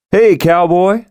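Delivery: high, bright hail across the yard; calling out. Acted. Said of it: "called out".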